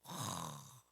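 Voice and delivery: hammed-up sobbing lament; mock sobbing. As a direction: play the mourner wailing at the grave. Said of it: "하면서 계속 우는 거예요".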